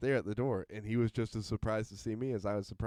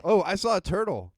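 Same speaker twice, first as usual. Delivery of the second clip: excited; 7 semitones higher, 7 dB louder than usual. Shown as a demonstration. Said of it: "what were we talking about earlier".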